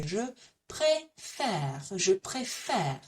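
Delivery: slow "Je préfère", closed é then open è; accented e sounds. Shown as a demonstration. Teacher showing what accents do, slow careful préfère. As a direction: draw out "préfère" to show both accented vowels. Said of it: "That's what those accents are doing".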